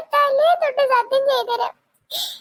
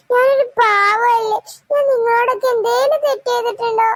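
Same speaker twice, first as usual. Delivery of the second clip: mock hurt innocence. Ghost plays innocent victim.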